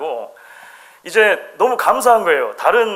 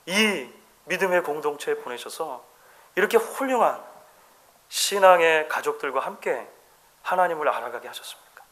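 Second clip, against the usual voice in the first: grateful prayer. Shown as a demonstration. Preacher modelling a thankful prayer to God, tender. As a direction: pray it humbly, full of wonder. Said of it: "감사의 언어들을 바꿔보면 어떨까요".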